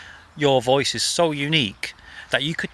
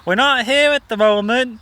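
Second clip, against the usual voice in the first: higher and louder, bright phone-message sing-song; mum's answering machine voice; 9 semitones higher, 6 dB louder than usual. Retold or imitated. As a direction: put on a chirpy recorded greeting. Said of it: "She'd be like".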